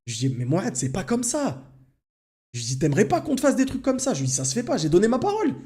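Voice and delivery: heated argument with the little brother, pitched high; exasperated. Retold or imitated. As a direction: plead with the brother, fed up. Arguing back with his brother.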